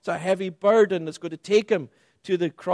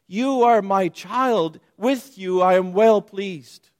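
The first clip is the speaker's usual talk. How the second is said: father's affirmation; 3 semitones higher, 6 dB louder than usual. Acted. Voicing God's affirmation to child.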